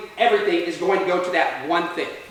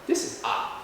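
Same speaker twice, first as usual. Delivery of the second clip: hushed, much softer aside; stunned understatement; 9 dB quieter than usual. Retold or imitated. Teller facing three cops at the door, quietly stunned. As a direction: act out quiet, mild shock. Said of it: "I was just kinda shocked".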